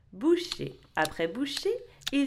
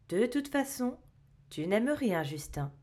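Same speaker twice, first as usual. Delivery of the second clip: calm; 4 dB quieter than usual. Acted. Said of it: "d'un ton tranquille".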